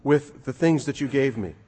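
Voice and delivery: proud servant bursting to show his work; excited. Acted. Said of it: "he's excited".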